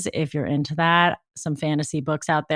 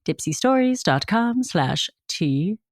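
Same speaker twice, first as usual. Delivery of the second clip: slow, breathy-sounding seductive read; sexy voice; slower than usual. Shown as a demonstration. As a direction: purr the web address slowly. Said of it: "That was me trying to have a sexy voice".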